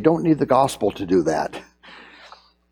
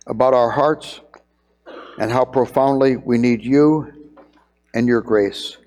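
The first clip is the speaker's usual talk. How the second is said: prayer. Acted. Pastor praying with the church after the sermon, earnest prayer voice.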